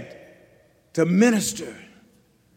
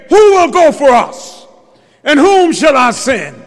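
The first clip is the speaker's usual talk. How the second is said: voice of God; 4 semitones higher, 4 dB louder than usual. Acted. The voice of God calling.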